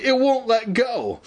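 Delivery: very high, hammed-up panic; shrill cry. A narrator's reading. Evan stuck in the goo, crying out shrilly. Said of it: "Evan cried shrilly".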